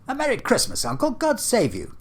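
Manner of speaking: high, bright-spirited holiday greeting, called out; cheerful nephew calling merry Christmas, way up high; cheerful cry. Acted. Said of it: "cried a cheerful voice".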